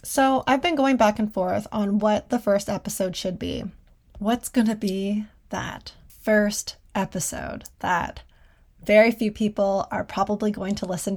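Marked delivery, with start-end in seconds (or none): 0.0-8.2 talking while eating an apple; chewing an apple while speaking; mouth full. Real, not acted. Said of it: "I'm gonna eat an apple".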